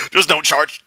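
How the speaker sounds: quoting through laughter; mock repeat, cracking up; laughing. Mocking his line while laughing.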